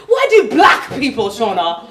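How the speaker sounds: high, loud British voice leaning on "black"; British boss stressing black. Retold or imitated. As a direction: hit "black" like a disease, English boss. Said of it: "put an emphasis on it".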